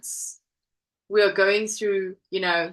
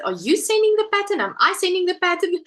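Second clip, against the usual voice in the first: higher, faster mock-confused asking; retold flustered question; 9 semitones higher, 3 dB louder, faster than usual. Host retelling asking the designer about the pattern, mock flustered. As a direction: rattle it off as if muddled. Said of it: "I was like".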